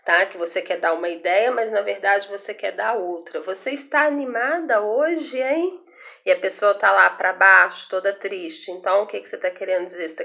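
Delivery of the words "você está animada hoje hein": high, lilting mock-cheerful question; ironic. Shown as a demonstration. Teacher demonstrating irony to a downcast person, ironic. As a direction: ask it with put-on irony, pitch climbing to the end. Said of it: "de uma maneira irônica".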